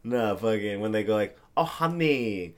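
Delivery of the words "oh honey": higher-pitched attempt at a Vietnamese accent. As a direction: imitate an older Vietnamese lady's accent, roughly. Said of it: "I can't do the accent as good".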